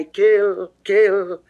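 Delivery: loud, high alarmed cry; cry of kill. Acted. Jealousy sounding false alarms in Venus's plea, loud high cry. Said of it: "doth cry".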